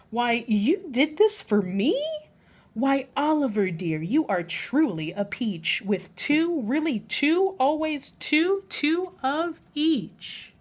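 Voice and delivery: delighted lady. Acted. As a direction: gush with delight over the surprise. Peggotty delighted at the tea.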